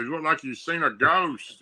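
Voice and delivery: lightly voiced old granddad; a hint of a country grandpa. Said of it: "That's what he said".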